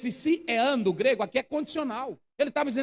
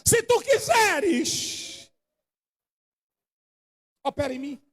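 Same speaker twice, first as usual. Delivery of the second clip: sincere prayer. Shown as a demonstration. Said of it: "Vá pra ele dizendo".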